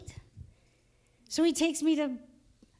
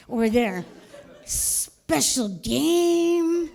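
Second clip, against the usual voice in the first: Southern stepfather. Retold or imitated. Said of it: "my stepfather from South Carolina".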